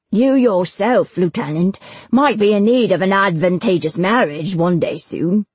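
lightly voiced officious schemer, leaning on words; insinuating bailiff Granger. Bailiff hinting at marriage to the lieutenant, insinuating. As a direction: press the suggestion with pointed emphasis.

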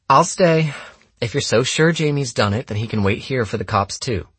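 put-on high, firm girl's voice; defiant girl. Lena sticks up for Jamie before the group, defiant. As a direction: start high and loud, then settle as you argue.

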